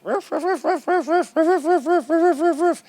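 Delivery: high yappy dog barks; imitated barking. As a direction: yap like a small dog far off. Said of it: "we hear this dog barking".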